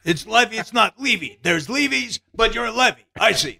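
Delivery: conclude it like a showman sizing someone up; Mel Brooks. Retold or imitated. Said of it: "This, he says".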